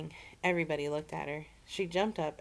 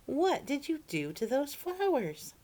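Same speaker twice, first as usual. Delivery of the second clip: dismayed; 10 semitones higher, 4 dB louder, slower than usual. A narrator's reading. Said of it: "she cried".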